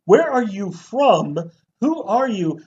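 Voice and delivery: high, loud bewildered questions; baffled viewer. Retold or imitated. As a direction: sound totally confused. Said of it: "And you're like".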